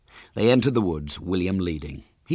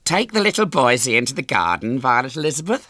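higher, louder fussy mother; gushing mother; 7 semitones higher, 5 dB louder, faster than usual. A narrator's reading. Mother sends daughter to play, high and gushing. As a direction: send the children off with a flourish. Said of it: "said her mother".

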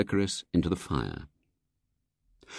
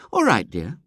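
sweetly; 4 semitones higher than usual. Acted. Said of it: "said Missus Brown sweetly".

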